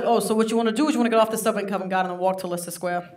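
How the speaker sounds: put-on fast New York wiseguy accent; Goodfellas New York accent. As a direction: lay on a stereotype New York mobster accent. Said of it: "my accent went from Good Samaritan to Goodfellas".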